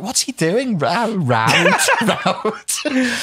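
high, laughing Scouse road; puzzled Scouser, cracking up; mock Scouse disbelief; mock Scouse bafflement. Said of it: "And I was like".

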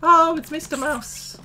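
high, loud, drawn-out squeal of recognition; delighted greeting. Real, not acted. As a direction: squeal slowly at a cute little friend.

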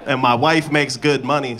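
normal talking voice

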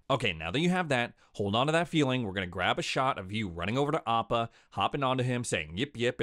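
put-on quiet, gentle voice of a director coaching a child; hushed mock director instructions; soft director coaching. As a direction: talk the kid through it softly. Imitates director coaching kid actor.

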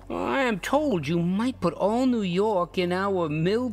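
slow, secretive whisper; confiding whisper. Acted. Rugg boasting to his passenger in a slow whisper.

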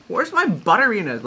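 high, snooty complaining tone; snobby voice. Retold or imitated. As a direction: play a fussy food snob. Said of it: "snobby about".

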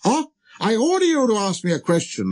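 high, eager royal command; hastily assuring king. Acted. King hurrying to permit the question, high and eager. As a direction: jump in with a pompous order. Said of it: "the king hastened to assure him".

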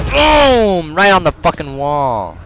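high triumphant yell; excited shout. Real, not acted. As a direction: shout the hit with glee. Celebrating a hit.

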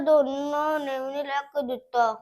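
loud, whiny crying to grandma; put-on sobbing complaint, pushed loud; tearful complaint. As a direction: wail out your grievance like a let-down child. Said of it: "ਤੂੰ ਰੋ ਨਾ ਪੁੱਤ".

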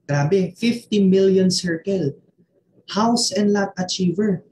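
slow, emphatic, animated listing; impressed. Shown as a demonstration. Coach showing off an impressive speaker script, impressed. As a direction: punch out the big achievements with weight.

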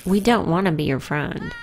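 laughing taunt. Real, not acted. Taunting the Grim Reaper in the game, laughing loudly. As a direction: tease him through a laugh.

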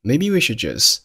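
"should" and "just" with the final stops held in, not released; unreleased final stops. Shown as a demonstration. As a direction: swallow the last d of "should" and t of "just". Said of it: "should 和just结尾的爆破音都没有爆出来".

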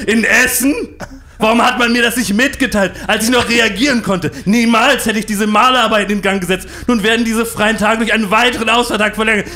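high, loud raging shout; furious director screaming at staff; Tobsuchtsanfall. Retold or imitated. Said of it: "Zadek bekam einen Tobsuchtsanfall". (hoch und laut tobend)

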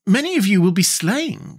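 awed. A narrator's reading. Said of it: "in an awed voice".

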